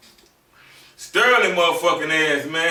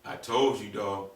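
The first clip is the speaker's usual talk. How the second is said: much softer, lower bragging; hushed boast; 11 semitones lower, 12 dB quieter than usual. Retold or imitated. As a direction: murmur it proudly to a friend. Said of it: "And I was like".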